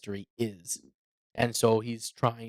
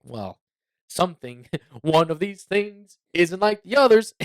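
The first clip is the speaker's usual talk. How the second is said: laughing; 7 semitones higher, 8 dB louder, slower than usual. Retold or imitated. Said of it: "you're kinda like".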